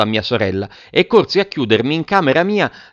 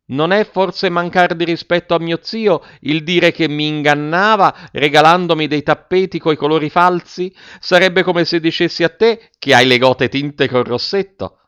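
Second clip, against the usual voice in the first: a scandalised matron, wounded pride on every word; offended old lady; 6 semitones higher than usual. A narrator's reading. Sora Matilde to Giannino, high and outraged.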